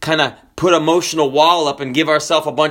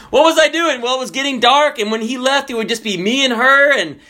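high, driving pulpit voice; emphatic preaching; 7 semitones higher than usual. Real, not acted. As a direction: preach it with raised pitch. Animated preaching of the story.

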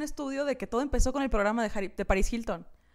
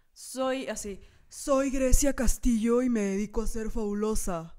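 slow, languid socialite voice, lightly done; slow fabulous rich girl; slower than usual. Pretend. Friend pretends to be a rich girl with no opinions, slow and languid. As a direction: drawl it out like a bored heiress. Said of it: "Hablaste como Ray Contreras".

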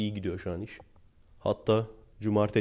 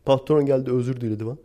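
mock bragging worker; 5 semitones higher than usual. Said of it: "hep böyle anlatırlar ya".

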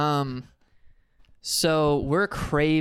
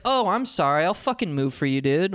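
angry snark; 3 semitones higher than usual. Retold or imitated. To the man who pushed in, angry sarcastic apology. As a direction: retell a heated mock apology. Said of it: "Like, I was so angry".

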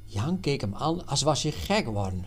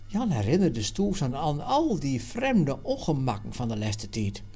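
usual speaking voice

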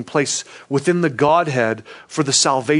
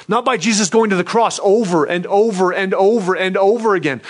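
ordinary talk, nothing marked

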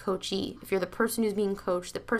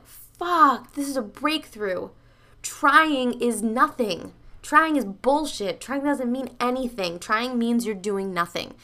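raised, drawn-out words of sudden realization; emphatic revelation; 4 semitones higher, 3 dB louder, slower than usual. Retold or imitated. Seminar watcher recalling the breakthrough, emphatic realization. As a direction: hammer each phrase home like a revelation.

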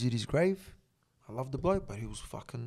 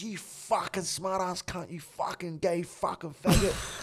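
mock rant; 4 semitones higher, slower than usual. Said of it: "he went off".

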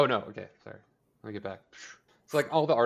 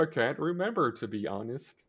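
higher-pitched mock innocence, easing down; playing dumb; 4 semitones higher than usual. Imitating a dad dodging his daughter's question, playing dumb. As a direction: feign a hazy memory, lightly hammed-up. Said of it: "still playing stupid".

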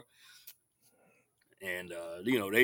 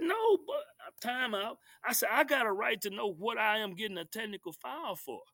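mock heated protest; 10 semitones higher than usual.

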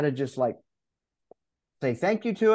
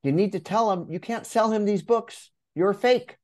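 a lightly voiced nagging inner critic, higher; half-play the doubting inner voice, raised in pitch; a hint of a scolding imposter, pitched up; 6 semitones higher than usual. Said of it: "my imposter voice came up and said".

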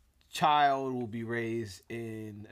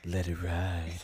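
lower, smooth late-night DJ; radio DJ voice; 5 semitones lower, slower than usual. Pretend. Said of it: "I've got my radio voice on now".

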